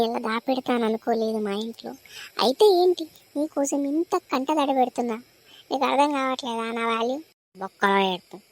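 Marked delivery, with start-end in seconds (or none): 2.4-6.7 mock outburst. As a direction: burst out indignant. Lovers' mock quarrel.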